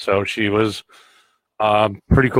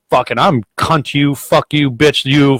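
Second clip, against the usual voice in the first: higher, jumbled volley of insults; retold cursing; 4 semitones higher, slower than usual. Plow driver swearing back at the woman, retold angry cursing. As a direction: re-enact swearing back in a heated tumble.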